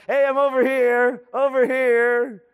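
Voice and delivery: high, light call from across the room; Jesus calling out. Retold or imitated. Jesus calling from the corner to busy churchgoers, high and light. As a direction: wave someone over, high and bright.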